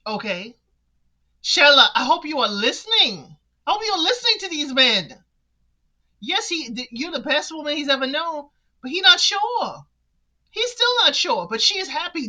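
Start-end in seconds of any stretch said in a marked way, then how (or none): 1.4-12.3 worked-up plea. Real, not acted. Urging Shella, worked up.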